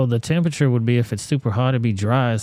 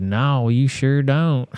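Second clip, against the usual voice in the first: retold insulting customer; 4 semitones higher, 4 dB louder, slower than usual. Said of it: "that Asian lady insulted me".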